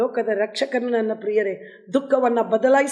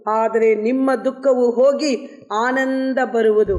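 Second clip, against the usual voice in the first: solemn scripture reading. Acted. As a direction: proclaim the holy words with weight. Reads scripture verse over music. (ಗಂಭೀರವಾದ ವಾಕ್ಯ ಪಠಣ)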